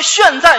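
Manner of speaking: 现在 said as "xuàn zài"; mock Manchu pronunciation. Shown as a demonstration. Crosstalk teacher announcing the show, mock Manchu 现在 as "xuàn zài". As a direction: round 现 into "xuàn" in 现在. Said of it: "满族语就是现在".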